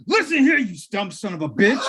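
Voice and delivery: high, loud mock yell; mock Pillman shout. Host imitating Pillman threatening Jim Ross, high mock yell. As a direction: snarl it like an unhinged wrestler.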